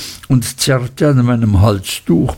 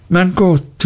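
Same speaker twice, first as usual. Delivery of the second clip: high startled exclamation; exclaiming; 7 semitones higher than usual. Acted. Traddles cries out to Copperfield, high and startled. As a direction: cry out in surprise. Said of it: "rief Traddles".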